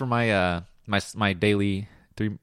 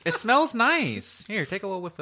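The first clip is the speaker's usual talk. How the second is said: savoring; 9 semitones higher than usual. Real, not acted. Savoring the nut's smell.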